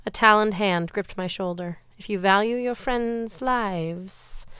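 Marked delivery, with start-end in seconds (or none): 2.0-4.5 slow, menacing creature voice; menacing monster guard. Acted. Guard monster warning Percy, slow and menacing. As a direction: let each word drag like a threat. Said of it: "my Draconid guard said".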